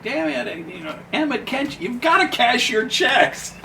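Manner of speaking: high-pitched exasperated nagging; exasperated scolding. Retold or imitated. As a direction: scold him for not cashing checks. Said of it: "she'd come down and it was like".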